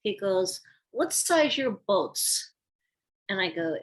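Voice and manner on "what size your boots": put-on slow, higher-pitched Russian-accented question; mock Russian accent, drawn out. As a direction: imitate a Russian man's accented English. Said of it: "in his Russian accent".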